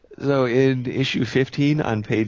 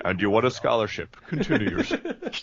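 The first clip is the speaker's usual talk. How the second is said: booming robot villain voice; 2 semitones higher than usual. Retold or imitated. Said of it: "the booming robot villain voice".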